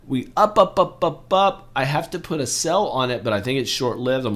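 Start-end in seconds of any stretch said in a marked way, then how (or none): 0.1-1.7 higher, louder up, up, up; excited cheer. Real, not acted. Vlogger cheering eBay's rally, high and excited. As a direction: chant the climb.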